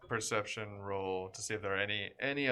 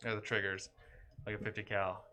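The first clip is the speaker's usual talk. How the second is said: usual speaking voice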